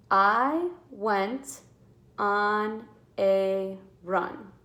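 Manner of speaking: "on a run" stretched very slowly; teacher dictating the sentence; slow dictation. Shown as a demonstration. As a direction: read it word by word. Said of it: "we gotta count how many words".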